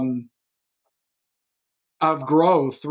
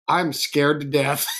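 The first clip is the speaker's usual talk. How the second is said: laughing scared admission; slower than usual. Retold or imitated. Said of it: "I said".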